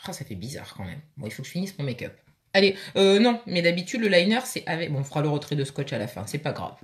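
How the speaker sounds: muffled, lips pressed shut; talking with mouth closed. Real, not acted. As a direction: speak without opening your lips. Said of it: "On va essayer de faire avec la bouche fermée".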